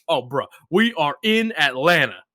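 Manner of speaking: excited. Retold or imitated. Retold yelling at GeoGuessr screen.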